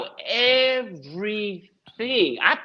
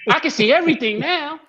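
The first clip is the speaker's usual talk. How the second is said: laughing son voice; 5 semitones higher, 3 dB louder than usual. Retold or imitated.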